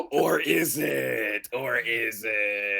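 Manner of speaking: drawn out and suggestive; slow teasing innuendo. Pretend. Hinting the bush trimming is a euphemism, slow tease. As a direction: stretch it out like a wink.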